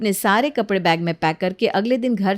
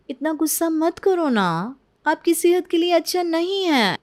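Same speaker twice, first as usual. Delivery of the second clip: sweet coaxing; 5 semitones higher than usual. Acted. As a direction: soothe her with fake sweetness. Bride coaxes mother-in-law. (मीठी बनावटी मनुहार)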